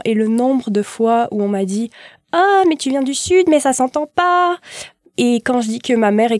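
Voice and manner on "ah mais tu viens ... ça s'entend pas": exclamation moqueuse, voix haut perchée; étonnement imité. Retold or imitated. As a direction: imite des gens tout étonnés, bien plus aigu. Imite les gens surpris de l'accent. (fausse surprise, la voix qui monte)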